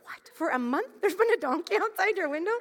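stifle a laugh in amazement; incredulous. Retold or imitated. Mother hearing the donkey story, barely not laughing. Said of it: "trying everything in me not to laugh".

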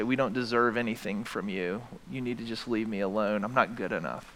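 low, hushed, defeated voice; acted self-rejection. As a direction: push God away softly, as if unworthy. Acted self-rejecting plea to God.

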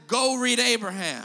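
lightly voiced commanding God; a hint of God's firm command. God telling the preacher to read Abraham, firm. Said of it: "God said".

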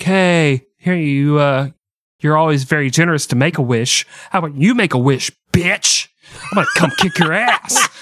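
mock tough trash talk. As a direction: goad him like a trash-talking heckler. Trash-talking a celebrity.

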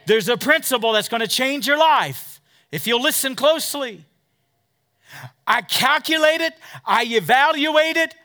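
rising, loud preacher's cadence; preaching. Acted. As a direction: drive it home to the congregation. Preaching to the congregation.

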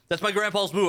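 laughing. Real, not acted.

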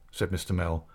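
usual speaking voice

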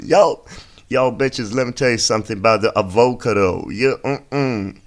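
sass it up like a diva addressing the crowd; urban diva. Pretend. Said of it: "it's very urban".

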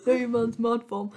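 tough London street slang voice; road man voice. Acted. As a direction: put on a road man swagger. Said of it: "Why does this sound like a road man speaking?".

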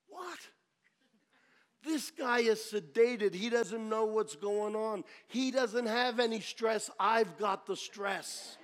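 baffled, protesting retort; incredulous protest. Retold or imitated. Incredulous inner protest to God's instruction.

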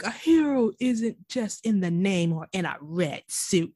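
mild, slow mock sneer; imitated sneer. Cohost quoting Joe's speech about heroes, mildly sneering. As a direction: lightly sneer it, drawing it out slowly. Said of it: "The way he, like, sneered that".

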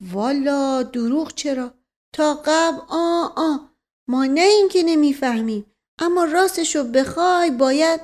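put-on high-pitched, insistent old retainer; earnest servant figure. Servant defending his understanding to his master, high and earnest.

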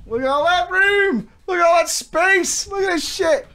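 high, amazed showing off; excited. Real, not acted. Showing off the empty room.

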